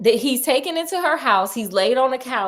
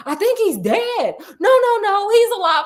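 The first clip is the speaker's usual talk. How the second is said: higher, louder bystanders arguing; bystanders voiced; 10 semitones higher, 5 dB louder than usual. Dudes arguing over the body, pitched-up voices. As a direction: play the dudes in the street. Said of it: "one of the dudes is like".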